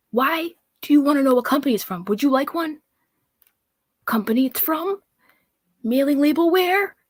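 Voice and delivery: mocking her nagging tone; sounding like her. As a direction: mimic her pushy questions. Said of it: "starting to sound like her".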